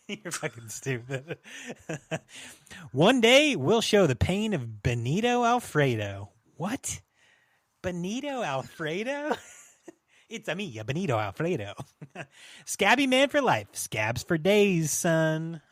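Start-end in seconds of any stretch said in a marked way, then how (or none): 2.9-6.3 high, loud hammed-up Italian accent at the start; cartoon Italian villain announcement; mock Italian accent. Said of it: "So I'll go Italian". 10.3-11.7 mock Italian accent. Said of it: "So I'll go Italian". 12.6-15.6 high, loud hammed-up Italian accent, slowing down; cartoon Italian tough guy; mock Italian accent. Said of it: "So I'll go Italian".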